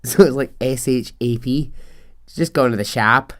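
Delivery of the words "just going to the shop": imitated Northern Irish accent, shop as "shap"; playful Belfast impersonation. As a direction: mimic a Belfast local. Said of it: "they say shap".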